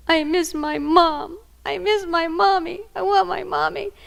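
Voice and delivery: put-on high, slow little boy missing his mom; little boy's voice. Grandma voicing her grandson who misses his mom, high and pleading. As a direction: plead like a small child who wants his mother.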